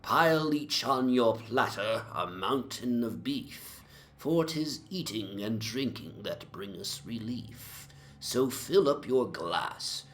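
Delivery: rollicking verse, lightly slurred and merry; tipsy drinking song recital. Acted. Young man declaiming an eighteenth-century drinking song at breakfast, rollicking and lightly tipsy. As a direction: raise your tankard and recite it with a touch of drunken swagger. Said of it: "declaiming in palpably licorice accents".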